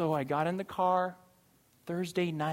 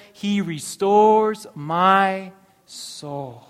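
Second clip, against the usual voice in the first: solemn proclamation; 9 dB louder, much slower than usual. Acted. Pastor proclaims verse three.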